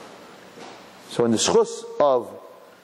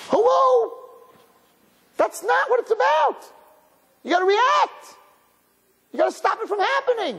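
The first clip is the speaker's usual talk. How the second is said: fervent exhortation. Real, not acted. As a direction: shake the room awake. Rabbi exhorts the audience.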